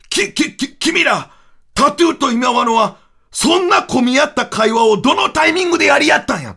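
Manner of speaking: stumble, then blurt the question; flustered stammer. Retold or imitated. Narrator confronting the duo, stammering in disbelief.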